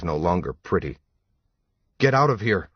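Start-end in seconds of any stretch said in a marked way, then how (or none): 2.0-2.7 demanding. A narrator's reading. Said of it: "she demanded".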